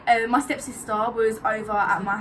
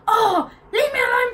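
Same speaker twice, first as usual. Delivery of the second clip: high gasping whine, mock exasperated; mock annoyed auntie; 12 semitones higher, 6 dB louder than usual. Nephew imitating his aunt on the phone, high whine. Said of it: "she picked up the phone and she goes".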